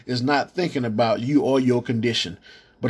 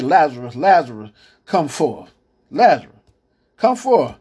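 calling out; 3 dB louder than usual. Acted. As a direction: summon him from the grave, rising each time. Jesus calls Lazarus from grave.

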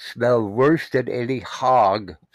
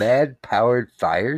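blocked nasal voice; clothespin on nose; slower than usual. Real, not acted. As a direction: talk with your nose pinched. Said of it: "you got that cotton-picking clothespin on your nose".

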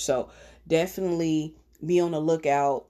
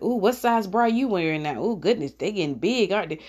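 mocking aunts; 3 semitones higher than usual. Aunts teasing a niece in the living room, mocking. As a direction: tease with a nosy, exaggerated "ooh". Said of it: "kinda mock me".

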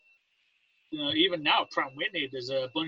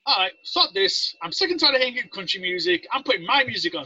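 fed-up; 6 semitones higher than usual. Retold or imitated. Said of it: "I'm like".

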